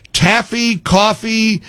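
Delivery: Taffy then coffee, contrasting the two words; correcting the word. Shown as a demonstration. Host correcting guest's taffy to coffee. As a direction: set coffee against Taffy. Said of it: "taffy you'll enjoy".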